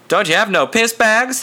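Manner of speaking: put-on kid's cheeky voice. A narrator's reading. Kid's cheeky question, pitch up.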